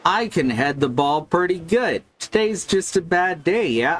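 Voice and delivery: mild Canadian island lilt on the player's lines; Canadian island accent. Pretend. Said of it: "I'm gonna give them a Canadian island accent".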